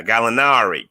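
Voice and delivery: "Gallinari" with a light Italian twang, open ah in the middle. Shown as a demonstration. Podcast host shows fans how to say the name, light Italian twang. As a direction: give "Gallinari" a touch of Italian lilt, rolling through the ah. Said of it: "Italian twang on it".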